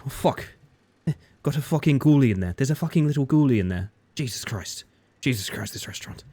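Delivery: a hint of sweary chef disbelief; Gordon Ramsay. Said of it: "a Tumblr post that's about Gordon Ramsay".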